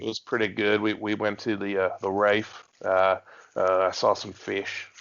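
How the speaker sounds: put-on Australian accent; casual mock Australian. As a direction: carry on as an Australian. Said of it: "you have been working on it".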